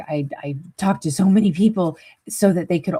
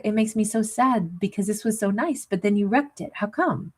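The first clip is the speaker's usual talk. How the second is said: mild sadness; 3 semitones higher than usual. Retold or imitated. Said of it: "it's more like".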